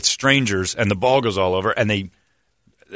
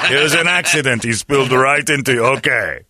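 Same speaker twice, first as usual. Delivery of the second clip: raised, mock-nervous excuse; nervous kid; 5 semitones higher, 4 dB louder than usual. Kid excusing himself to the busboy, mock nervous. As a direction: imitate a kid insisting on an accident. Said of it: "he was nervous about it".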